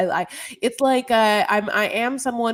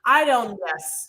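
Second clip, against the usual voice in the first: slow, with "yes" set apart; YES in place of "know"; slower than usual. Shown as a demonstration. Proving yes isn't in it, "yes" said deliberately. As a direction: put "yes" deliberately where "know" belongs. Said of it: "the sound yes isn't an".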